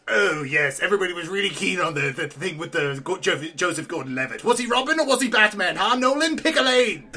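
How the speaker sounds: lightly voiced sarcastic villain; mildly hammed-up Joker grumbling; ranting Joker. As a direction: start in a quick mumble and climb to a high challenge. Joker rants about Batman films.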